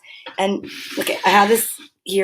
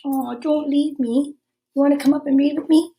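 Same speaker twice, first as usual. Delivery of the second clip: high pleading coo to a dog; cooing dog-owner voice; coaxing pet talk; 4 semitones higher than usual. Real, not acted. Coaxing the dog to come back.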